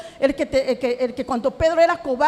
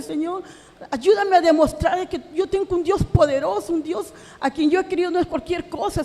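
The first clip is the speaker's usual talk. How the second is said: raised, pleading prayer to God, near tears; 3 semitones higher than usual. Retold or imitated. A mother praying to God over her son, pleading. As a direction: beg the Lord for help, voice climbing. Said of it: "decía".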